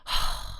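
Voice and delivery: long, airy sigh at a hopeless case; disappointed sigh. Acted. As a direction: act out a parent's sigh of dismay. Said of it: "그리고 한심해".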